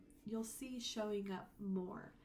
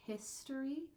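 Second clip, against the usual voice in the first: "history" with the first syllable punched; stress on HIS; 5 semitones higher than usual. Shown as a demonstration. Teacher contrasting related words, stress on first syllable. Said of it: "we're gonna emphasize this a little bit".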